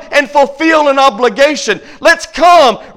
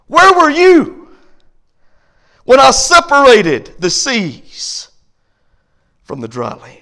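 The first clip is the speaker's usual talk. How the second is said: booming voice of God. Retold or imitated. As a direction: thunder the question, then fade. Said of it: "this is what he says".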